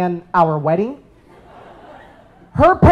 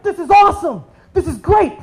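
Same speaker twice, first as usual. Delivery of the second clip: laughing glee; 9 semitones higher than usual. Retold or imitated. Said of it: "And so I was like".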